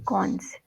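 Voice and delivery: "Cons" begun with a hard K; K sound. Shown as a demonstration. Teacher confirms student's pronunciation, "Cons" with a K. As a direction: say "Cons" alone with an initial K. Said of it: "not a k sound".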